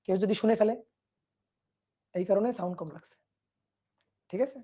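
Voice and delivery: hushed, as if someone might overhear; deliberately soft. Pretend. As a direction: keep it down so nobody else hears. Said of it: "আমি আস্তে আস্তে বলছি".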